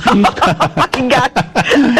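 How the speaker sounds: real laughter breaking the words; laughing hard through Oh my God. Real, not acted. Cracking up at the host's joke, laughing.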